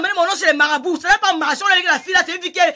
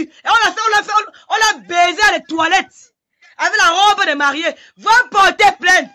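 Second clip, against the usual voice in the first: heated, rising tirade, louder at the end; angry rant; 3 semitones higher, 3 dB louder than usual. Real, not acted. Woman ranting at her accuser on a live, furious. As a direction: hurl the accusation at him in anger.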